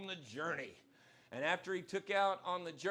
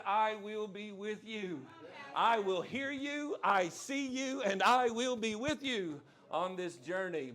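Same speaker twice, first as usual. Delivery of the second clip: voicing God; 3 semitones higher, 4 dB louder, slower than usual. Preacher voicing God's promise.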